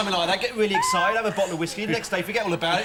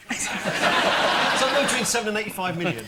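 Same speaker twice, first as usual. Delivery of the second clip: Gordon Brown voice; slower than usual. Retold or imitated. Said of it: "You sound like Gordon Brown now".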